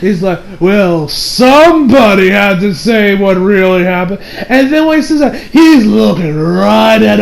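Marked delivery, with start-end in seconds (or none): 0.6-4.2 slow, drawn-out petty retort; mocking, self-righteous petty jab. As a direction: imitate someone being petty, dragging the words. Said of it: "gets petty as hell".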